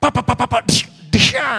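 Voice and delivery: put-on loud, high frantic child calling for papa; a scared child shouting for its father; child's cry. Pastor voices child crying for father, loud high shout.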